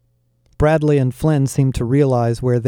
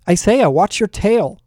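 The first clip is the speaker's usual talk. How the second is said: high startled yelp; 8 semitones higher than usual. A narrator's reading. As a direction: yelp it out in alarm. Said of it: "One of the girls yelped".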